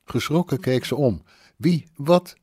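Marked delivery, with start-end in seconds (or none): 1.6-2.4 startled, high, broken-off questions; stammering in shock. A narrator's reading. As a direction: stammer it out, caught off guard. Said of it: "stamelde ze". (geschrokken stamelend)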